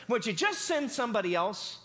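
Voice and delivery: mild mock whine; Moses. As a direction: imitate a complainer begging off. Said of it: "And he's just whining".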